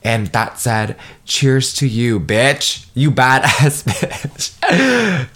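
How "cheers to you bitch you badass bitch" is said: playful hype. Real, not acted. Cheering listeners, laughing.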